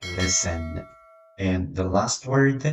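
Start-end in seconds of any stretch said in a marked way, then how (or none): 0.0-0.9 Listen said lesen, no t sound; silent t. Shown as a demonstration. Teacher to students, Listen with a silent t. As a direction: drop the t in Listen. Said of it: "در این کلمه حرف تی خاموشه".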